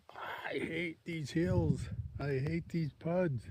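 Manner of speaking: slow whispered grumble about hills; whiny hiker complaint. Retold or imitated. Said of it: "you're like".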